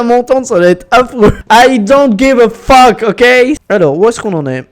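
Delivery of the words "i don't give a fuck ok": put-on slow, higher English with a French accent; bad English accent. Gamer brushing off viewers' criticism, bad English accent. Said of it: "Mon accent anglais doit être éclaté".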